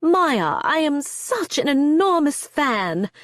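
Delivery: high, loud, bright-faced country drawl; loud, cheery, thick country accent. A narrator's reading. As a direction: gush it in a broad country accent. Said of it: "saying in a thick country accent".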